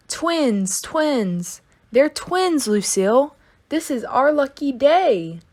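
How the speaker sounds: high, quick thrilled chatter; little girl bubbling over with excitement; excited. Acted. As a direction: gush about the twins. Excited about twins.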